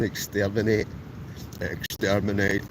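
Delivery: slow, mock robotic Dalek chant. Scottish camper joking back at a Dalek comment, robot voice. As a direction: play up the Dalek robot sound. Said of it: "You still sound like a Dalek".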